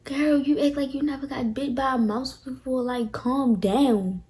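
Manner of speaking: dismissive friend. Retold or imitated. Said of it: "How dare you tell me".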